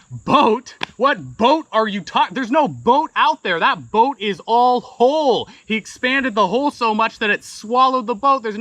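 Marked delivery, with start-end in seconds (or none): 0.1-5.5 higher, louder, words tumbling out in disbelief; excited rapid protest. Retold or imitated. Narrator telling John the boat is gone, excited and high. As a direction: pile the questions on, amazed. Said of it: "started talking a mile a minute".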